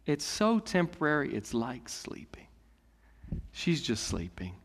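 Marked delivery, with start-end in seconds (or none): 1.3-4.5 a whispered aside about sleep. Real, not acted. Tender point about death as sleep.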